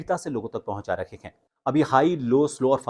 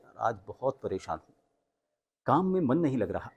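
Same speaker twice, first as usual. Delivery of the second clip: sad demo; 5 dB quieter than usual. Shown as a demonstration. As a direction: sigh it out like a tired, fed-up friend. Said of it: "बोलने की speed थी वो भी कम हुई".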